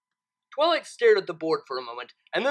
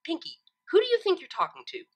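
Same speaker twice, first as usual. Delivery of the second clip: annoyed; 9 semitones higher than usual. A narrator's reading. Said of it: "Twilight said, clearly annoyed".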